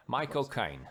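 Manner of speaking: put-on Cockney accent, Caine said like "kine"; Michael Caine's Cockney accent. Host puts everybody on the spot, Cockney accent impression. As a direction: give the name a quick Cockney twist. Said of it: "everybody's got a Michael Caine".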